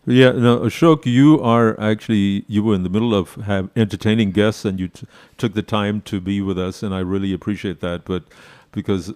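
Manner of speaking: echoey, through a stereo; echo chamber. Real, not acted. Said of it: "it sound like you are in an echo chamber".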